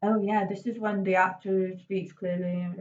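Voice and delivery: lightly mumbled, lazy diction; mumbling demo. Shown as a demonstration. Teacher mumbling to class as a bad example of clarity. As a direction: slur the words to show poor clarity.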